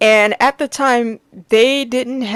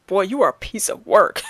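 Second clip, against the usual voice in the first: laughing ghost. Retold or imitated. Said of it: "the ghosts are like".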